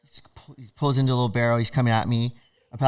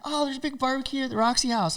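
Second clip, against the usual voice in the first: high, softer chatty voice; imitated friendly acquaintance; 13 semitones higher, 5 dB quieter, faster than usual. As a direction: imitate someone casually sharing party plans, pitched up. Acquaintance mentioning a party.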